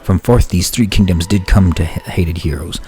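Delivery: solemn preaching of the fallen lord; cult sermon. Acted. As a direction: proclaim the dark prophecy.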